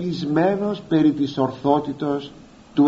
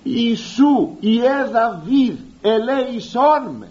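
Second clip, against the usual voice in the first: higher, pleading cry of a blind beggar, lightly voiced; a restrained echo of the beggar's cry; retold crying out; 8 semitones higher, slower than usual. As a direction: call out higher and drawn-out, begging for mercy. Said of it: "Έκραζε διαρκώς".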